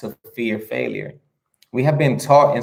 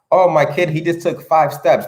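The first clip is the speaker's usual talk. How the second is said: put-on beam about your kid's first steps; proud parent; 5 semitones higher than usual. Parent telling others their baby walked, proud and gushing.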